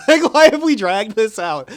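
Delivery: high, loud, drawn-out wail of complaint; exasperated outburst. Acted. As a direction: draw it out in comic despair. Exasperated outburst, then said once more.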